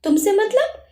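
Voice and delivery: curt, mildly angry comeback; angry retort. A narrator's reading. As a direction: shut her friend down with mild anger. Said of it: "चंचल ने गुस्से में कहा".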